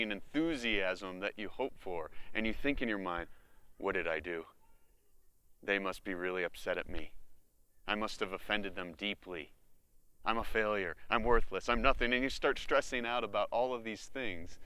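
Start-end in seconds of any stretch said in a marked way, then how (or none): 3.8-12.1 anxious inner voice. Pretend. Acted anxious inner voice spiralling.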